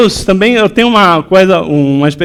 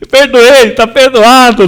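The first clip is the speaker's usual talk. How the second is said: higher, louder, exultant; triumphant joy; 6 semitones higher, 5 dB louder, slower than usual. Retold or imitated. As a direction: declare it done, delighted. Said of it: "Ela veio vibrando assim". (exultante, em voz alta)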